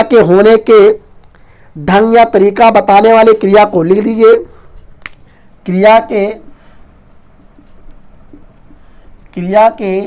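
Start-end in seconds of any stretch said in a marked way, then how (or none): 5.7-10.0 measured dictation with long pauses between phrases. Real, not acted. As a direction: dictate it piece by piece for note-takers. Dictates a definition for writing.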